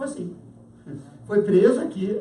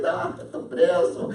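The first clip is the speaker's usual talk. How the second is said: slow, easygoing mock laugh; lightly laughed-through resignation; laughing while arrested; 5 semitones lower, slower than usual. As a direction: act amused at your own arrest. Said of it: "ele entrou na cadeia rindo".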